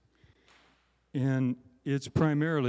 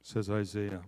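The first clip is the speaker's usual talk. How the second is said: scripture reading. Acted. Reads Isaiah six aloud.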